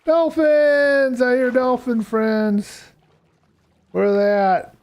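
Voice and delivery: high, thrilled call-out; light up at hearing dolphins; excited. Real, not acted. Hears dolphins in game.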